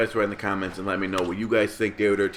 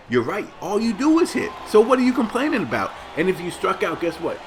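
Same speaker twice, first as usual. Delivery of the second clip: much higher and louder, sarcastic echo of the boast; mock sarcasm; 9 semitones higher, 3 dB louder than usual. Real, not acted. Vlogger mocking the slugger's boast, in a high sarcastic voice. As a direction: throw his words back at him, mocking.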